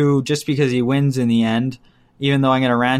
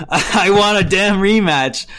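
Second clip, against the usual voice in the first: demanding Rocky; 6 semitones higher, 3 dB louder than usual. Retold or imitated. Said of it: "The first scene of Rocky two is".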